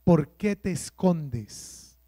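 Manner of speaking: slow, soft and gentle asking; a touch of tender concern; gentle question. Retold or imitated. God asking hiding Adam, slow and gentle. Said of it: "Dios le preguntó a Adán".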